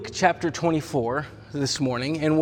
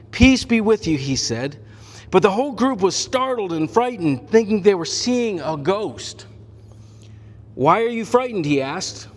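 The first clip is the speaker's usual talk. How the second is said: scripture reading; 2 semitones higher than usual. Acted. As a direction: read the passage out to the church. Reads the scripture passage aloud.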